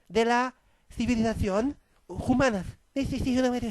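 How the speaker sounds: mock Spanish accent, "-os" stuck on French words; hammed-up Spanish queen threatening in a fake Spanish accent. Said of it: "donc je vais faire l'accent espagnol".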